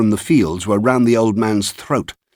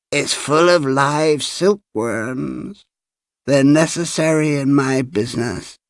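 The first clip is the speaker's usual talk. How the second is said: put-on high old man, lingering slowly at first; cracked-bell voice; 5 semitones higher than usual. A narrator's reading. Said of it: "in a voice like a small, cracked bell".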